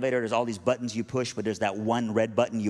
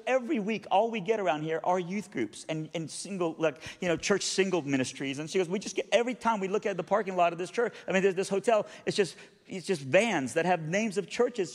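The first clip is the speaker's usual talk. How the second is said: bewildered cleaning lady; 6 semitones higher than usual. Retold or imitated. Bewildered lady explains herself.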